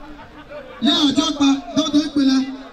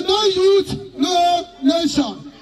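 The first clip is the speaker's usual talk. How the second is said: shouted slogan; 3 semitones higher, much slower than usual. Real, not acted. MC rousing the crowd, slogan.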